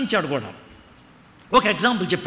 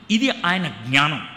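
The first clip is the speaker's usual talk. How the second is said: slow emphasis; 4 semitones lower, slower than usual. Shown as a demonstration. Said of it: "repeated for emphasis".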